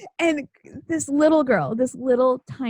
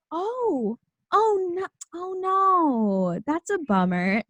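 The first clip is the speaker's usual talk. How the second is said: mock sympathy; 7 semitones higher than usual. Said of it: "So I was like".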